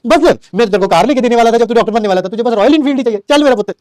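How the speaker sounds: imitating strict father. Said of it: "पिताश्री कहते हैं".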